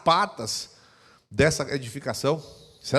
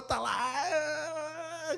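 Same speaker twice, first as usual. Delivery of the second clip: imitated crying; 12 semitones higher, 6 dB quieter, much slower than usual. Wife crying in prayer.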